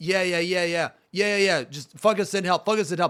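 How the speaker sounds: half-listening, inattentive. Speaker acts out a caller on the phone watching a guy outside: distracted, barely paying attention. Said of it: "And you're talking kind of like this".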